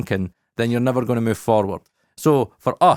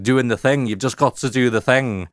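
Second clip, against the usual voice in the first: put-on Scouse accent. Podcaster imitating Stephen Cole's catchphrase in Scouse accent. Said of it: "a Scouse accent just 'cause I can".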